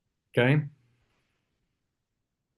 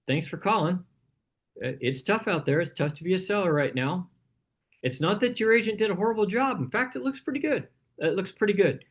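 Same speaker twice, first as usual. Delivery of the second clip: a higher, upbeat phone voice to a seller; friendly agent on phone; 5 semitones higher than usual. Shown as a demonstration. Agent reassuring a seller caller, lightly upbeat. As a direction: sound helpful and easy on the call. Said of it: "same thing we tell sellers".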